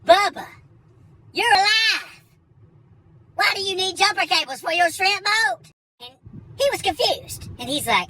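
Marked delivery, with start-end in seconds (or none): 0.0-5.6 overjoyed like Forrest seeing Bubba; hammed-up Forrest Gump. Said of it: "I thought I was Forrest Gump".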